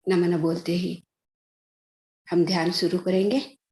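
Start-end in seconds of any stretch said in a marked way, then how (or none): 2.3-3.6 unhurried meditation instructions with long pauses; guided meditation. Real, not acted. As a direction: guide them step by step into meditation. Leads a meditation session. (ध्यान कराने का ठहरा हुआ अंदाज़)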